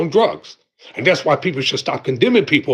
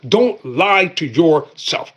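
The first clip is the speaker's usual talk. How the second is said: slow emphatic warning; slow, deliberate repeat; much slower than usual. Shown as a demonstration. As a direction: stretch out Don't lie to yourself, every word slow.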